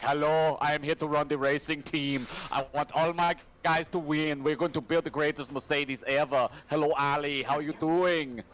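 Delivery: put-on Austrian accent. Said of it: "he sounds like Arnold Schwarzenegger".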